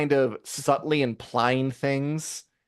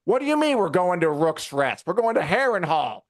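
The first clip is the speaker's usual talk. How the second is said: mock incredulous; 5 semitones higher than usual. Voices Gawain's baffled objection.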